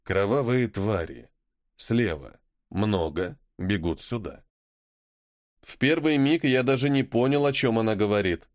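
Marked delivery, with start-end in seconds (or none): 0.0-4.4 calm, low and quiet. Acted. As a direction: coolly report the danger. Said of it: "спокойно сказала".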